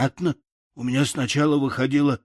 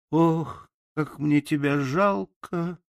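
sighing pity; 4 semitones higher, slower than usual. Acted. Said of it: "вздохнула девочка".

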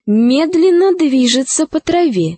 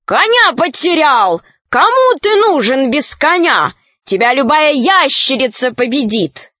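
shouting; 2 semitones higher than usual. Acted. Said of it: "крикнула белая ворона".

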